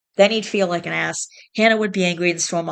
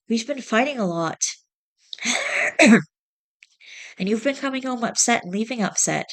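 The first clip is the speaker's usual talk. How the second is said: higher, hurt voice of a wife; 4 semitones higher than usual. Acted. Wife confronting husband about fighting, higher and hurt. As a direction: sound wounded and tired.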